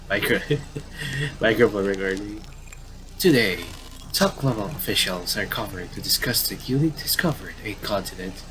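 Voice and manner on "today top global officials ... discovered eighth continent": measured newscaster cadence; lightly played TV newsreader; news anchor read. Reading in-game TV news.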